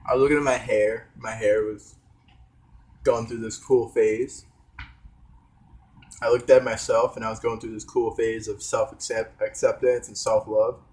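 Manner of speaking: talking with a mouth full. Real, not acted. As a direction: speak around a mouthful of banana. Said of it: "I'm talking with my mouth full".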